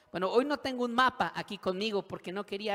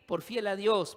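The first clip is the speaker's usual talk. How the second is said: raised, loud reply; emphatic answer; 4 semitones higher, 6 dB louder than usual. Acted. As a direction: answer firmly like the other inmates. José answers the inmates.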